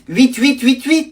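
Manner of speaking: "Huit huit huit huit." said very slowly, each "huit" on its own; dictating the password slowly to the grandson; slow spelling out. Shown as a demonstration. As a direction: count out "Huit huit huit huit." one by one. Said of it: "quatre huit à la suite".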